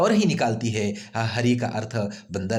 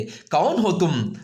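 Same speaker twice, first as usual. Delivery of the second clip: slow, raised call to someone outside; higher-pitched, drawn-out calling voice; 5 semitones higher, 4 dB louder, much slower than usual. Acted. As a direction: call out the question, stretched. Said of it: "आवाज़ देती है".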